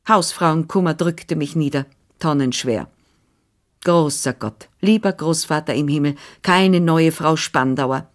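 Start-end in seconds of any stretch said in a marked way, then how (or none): 3.8-8.1 fervent prayer. Acted. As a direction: beg heaven, drawing out each word. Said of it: "Ich betete inbrünstig".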